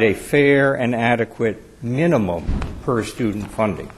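"minimum" set apart with a rise and fall in pitch; stress on minimum. Real, not acted. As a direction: lean on the word "minimum". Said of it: "I stress the word minimum".

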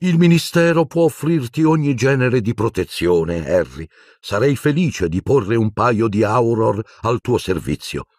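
a stiff attempt at gentleness; forced delicate tone. A narrator's reading. Minister offering Harry protection, in a forced gentle tone. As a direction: soften it, but it doesn't quite land. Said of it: "in quello che doveva essere un tono delicato".

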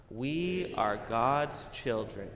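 slow, loud, word by word; slow group lead. Shown as a demonstration. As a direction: lead the room, slowly. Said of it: "One more time".

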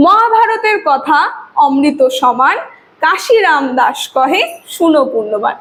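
slow, measured poem reading; slow recitation. Shown as a demonstration. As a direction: recite each beat slowly. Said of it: "আমাদেরকে ধীরে পাঠ করছে". (ধীর লয়ে ধীরে আবৃত্তি)

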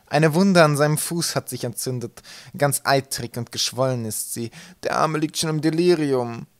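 slow, drawn-out servile voice; mate character voice. A narrator's reading. Mate telling captain of an injured crewman, slow character voice.

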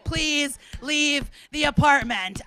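slow, spaced-out mock plea; pleading husband. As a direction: beg lightly, one word at a time. Voices clapping husband's plea.

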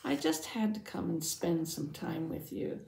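animated first-person storyteller; measured read-aloud with lively character quotes; storytelling narration. A narrator's reading. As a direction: tell a Bible story to children, expressively. Reads first-person Bible story as Jairus.

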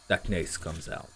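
low, slow movie-trailer voice; dubbing voice demo. Shown as a demonstration. Streamer shows off his dubbing voice, low and slow. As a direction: drag it out deep like a trailer. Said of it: "J'aimerais bien faire du doublage".

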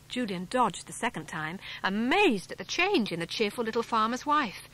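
ordinary delivery

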